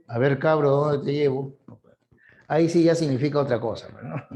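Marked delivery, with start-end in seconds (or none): 0.1-1.5 a slightly lower, knowing tone of a Lima cabbie; lightly voiced Lima taxi driver with a sly double meaning on cabro; a hint of a suggestive Lima taxi driver. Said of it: "se para un taxista a tu lado".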